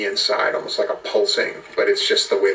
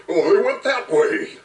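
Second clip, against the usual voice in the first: high, whinnying horse character voice; talking horse; 9 semitones higher than usual. Acted. Horse answers the players, in a high animal voice. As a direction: speak as a cartoon horse, pitched up. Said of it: "they wanna talk to the horse".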